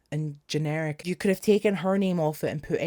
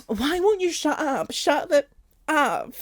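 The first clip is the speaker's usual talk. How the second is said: higher, singsong mock of the censored lyric; 8 semitones higher than usual. Mocking the censored chorus she finds annoying, in a higher singsong. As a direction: parody the prim censored line. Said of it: "we're going".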